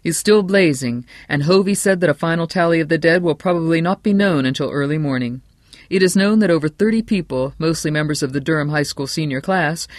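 lightly voiced radio newscaster; radio bulletin. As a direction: announce it like a breaking bulletin. Broadcaster continues fire bulletin.

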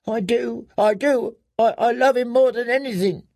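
put-on high, frightened girl's voice; scared girl insisting on her devotion; terrified pleading. A narrator's reading. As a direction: plead desperately, tripping over the words. Terrified girl pleads, fearing a trick.

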